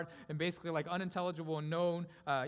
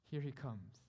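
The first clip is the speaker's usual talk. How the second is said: restrained, much softer announcement; hushed awe; 3 semitones lower, 5 dB quieter, slower than usual. Acted. Preacher first points the church to Christ arriving, hushed. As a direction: drop back from the shout.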